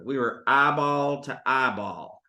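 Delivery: low, slow Carolina storyteller; Northern Carolina accent. Retold or imitated. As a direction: draw out "eyeball" in a Carolina accent. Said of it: "at a golf course in Northern Carolina".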